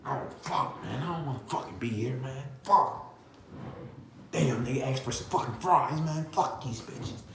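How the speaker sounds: mock fed-up grumbling, half under the breath; bitter muttered complaining about the customers; grumbling worker. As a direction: gripe like a worker who hates the shift. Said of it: "talking about".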